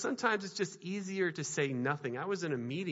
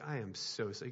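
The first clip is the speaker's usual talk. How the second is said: melting apology; 7 semitones lower, 8 dB quieter than usual. Retold or imitated. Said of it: "he just melted".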